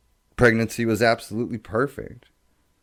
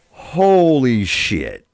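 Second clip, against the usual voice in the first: overwhelmed; 4 semitones higher, 7 dB louder, much slower than usual. Retold or imitated. Overwhelmed by wife's blindness.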